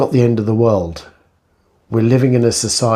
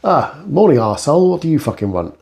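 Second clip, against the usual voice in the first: rude greeting; 5 semitones higher than usual. Retold or imitated. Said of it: "turn around and go".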